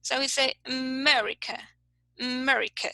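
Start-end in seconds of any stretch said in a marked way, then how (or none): 0.7-1.6 "America" with a very short, hinted first "uh"; schwa. Shown as a demonstration. Teacher demonstrates schwa, a mere hint starting "America". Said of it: "is a very short sound". 2.2-2.9 "America" with a very short, hinted first "uh"; schwa. Shown as a demonstration. Teacher repeats the schwa, a mere hint starting "America". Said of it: "is a very short sound".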